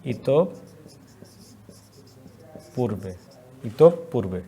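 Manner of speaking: dictating ইতপূর্বে slowly; slow dictation. Shown as a demonstration. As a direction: stretch ইতপূর্বে gently. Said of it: "dictating word slowly".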